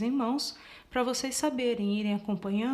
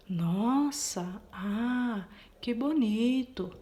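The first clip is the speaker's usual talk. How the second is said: exclamation; much slower than usual. Shown as a demonstration. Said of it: "exclamação".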